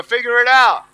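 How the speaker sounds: loud, emphatic rallying call; stronger. Shown as a demonstration. Speaker leads audience repeating the words, stronger. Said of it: "say it stronger".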